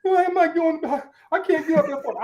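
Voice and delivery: high, drawn-out mock complaint; mock tired whining. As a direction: whine like a sleepyhead, hammed-up. Mocks people who prefer sleep.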